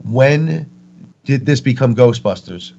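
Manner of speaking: retold screaming. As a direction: demand answers in a half-voiced scream. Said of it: "screaming at her".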